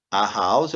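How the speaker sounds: "house" with a breathy H; model pronunciation. Shown as a demonstration. Teacher models "house" for students, clear H. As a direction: say "house" with an audible H. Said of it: "Eu tenho a letra H".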